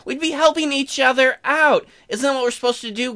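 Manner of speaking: high, loud, mildly flustered protest; flustered denial. Acted. Hastily denies bribery in character.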